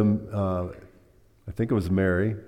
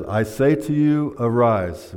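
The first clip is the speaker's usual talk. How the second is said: forceful command. Retold or imitated. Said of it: "spoken forcefully and loudly".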